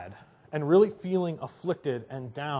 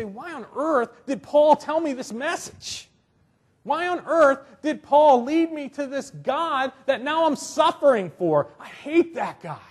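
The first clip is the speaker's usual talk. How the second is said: acted, exasperated complaint; resentful; 5 semitones higher than usual. Preacher voicing suffering believers who blame Paul, resentful. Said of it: "Maybe they resent me".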